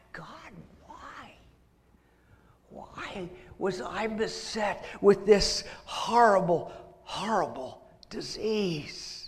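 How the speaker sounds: pleading cry to God, slowing; anguished plea. Retold or imitated. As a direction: ask God why, in anguish. Leper crying out to God.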